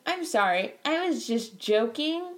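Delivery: drawn-out fake apology with rising end; insincere apology. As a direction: mimic a hollow apology, slowing on the excuse. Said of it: "Yeah, not genuine".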